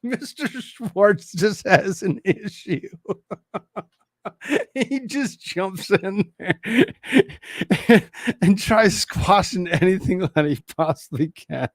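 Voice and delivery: talking through laughter; amused, barely holding laughter; laughing. Real, not acted. Laughing at lawyer's interruptions.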